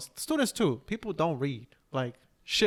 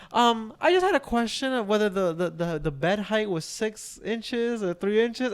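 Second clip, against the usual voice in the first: much higher, louder, prim and fussy; imitating the fussy mom; 6 semitones higher, 3 dB louder than usual. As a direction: play the mother nagging about bed height. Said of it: "they're just like".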